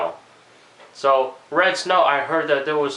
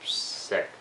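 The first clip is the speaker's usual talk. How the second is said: sick with a cold; 6 semitones lower, 7 dB quieter than usual. Real, not acted. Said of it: "I have a cold right now".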